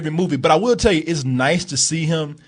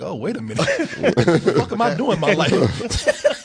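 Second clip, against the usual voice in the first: laughing mock epiphany; 3 semitones higher than usual. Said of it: "and he's like".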